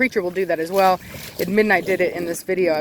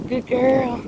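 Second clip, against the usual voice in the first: high pet-praise voice; bright sing-song praise; puppy praise; 5 semitones higher than usual. Real, not acted. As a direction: cheer the puppy on.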